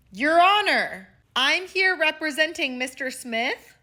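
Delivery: high, loud mock-formal address; courtroom lawyer act. Grandfather plays lawyer before the judge, grand courtroom address.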